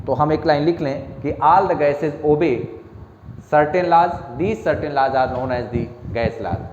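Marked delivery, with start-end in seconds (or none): 4.4-6.6 very slow dictation, every word separate; slow dictation to students. Shown as a demonstration. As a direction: read it out slowly for the class to copy. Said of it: "लिख लीजिए".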